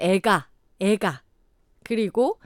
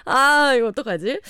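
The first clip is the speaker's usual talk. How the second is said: usual speaking voice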